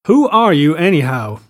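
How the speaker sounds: high, loud challenge easing off; angry outburst. A narrator's reading. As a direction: burst out with the challenge. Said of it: "broke out Tom".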